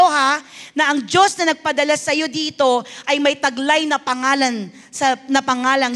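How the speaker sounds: emphatic preacher, drawing out key phrases; preaching. Real, not acted. Preaches to congregation. (madiing pangangaral sa simbahan)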